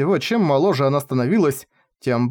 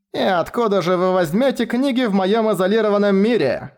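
презрительно; 7 semitones higher than usual. A narrator's reading. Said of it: "презрительно засмеялась маркиза".

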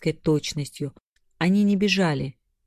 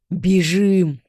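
urgent shout; 2 semitones higher, 6 dB louder than usual. A narrator's reading. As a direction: bark the order to flee. Fleeing the guardians, urgent call.

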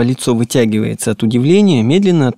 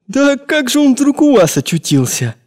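put-on amazed boy; 13 semitones higher than usual. Boy amazed key found.

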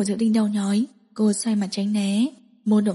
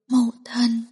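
aggrieved call. Acted. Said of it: "tủi thân kêu một tiếng".

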